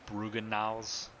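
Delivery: Brugenhaus drawn out slowly in a rough German accent; German-sounding name. Shown as a demonstration. Streamer trying a German place name, slow rough German accent. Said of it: "obviously a German accent name".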